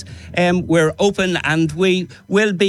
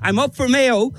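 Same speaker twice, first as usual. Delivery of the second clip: raised, higher-pitched rallying call; powerful, strong voice; 4 semitones higher than usual. Real, not acted. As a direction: declare it with real power and passion. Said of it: "You have a powerful, strong voice".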